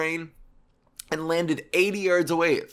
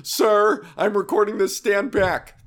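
high, louder nervous "sir"; imitating timid bystander; 5 semitones higher, 6 dB louder, slower than usual. Bystander filming a fight pleads with a man, high and nervous. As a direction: hold the phone and plead from afar. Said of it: "don't just stand there going".

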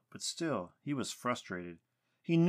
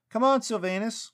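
high, loud call of exasperation; exasperated yell; 12 semitones higher, 8 dB louder than usual. A narrator's reading. Lucas calling the hidden Sylvanus out, yelling. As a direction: yell up at someone who won't show. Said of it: "Lucas yelled".

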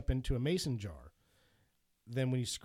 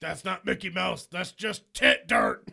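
mock quote; 6 semitones higher, 8 dB louder than usual. Quoting bad movie line.

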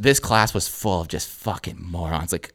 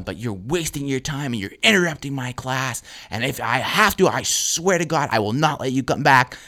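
higher-pitched retold teacher threat; scolding teacher; 4 semitones higher than usual. Teacher threatening to bar a student, worked-up scolding. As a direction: build to a stern warning, stretching the oath. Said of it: "And she's going".

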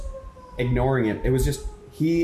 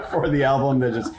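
laughing through an embarrassed plug; sheepish laugh; 4 semitones higher than usual. Real, not acted. Host plugging the album on air, sheepish laugh. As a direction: giggle at your own shameless plug.

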